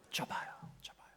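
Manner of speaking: very soft, fading to barely audible; low-volume murmur; hushed answer. Real, not acted. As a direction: answer yourself under your breath. Answers own question in hush.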